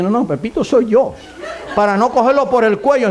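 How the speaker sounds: exasperated dad admitting it, played for laughs; amused punchline. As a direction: confess it as the joke's punchline, laughing. Punchline of the retold joke.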